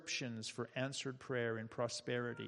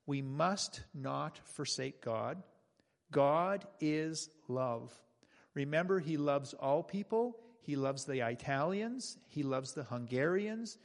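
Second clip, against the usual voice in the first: loud emphatic preaching. Retold or imitated. Pastor retelling Jacob preaching to villagers, loud and emphatic. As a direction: proclaim it to the crowd, hammering each line. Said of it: "preached in a loud and emphatic voice".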